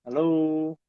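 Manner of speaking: glitching robot; breaking up over bad line; choppy connection. Real, not acted. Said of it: "agak sedikit putus-putus".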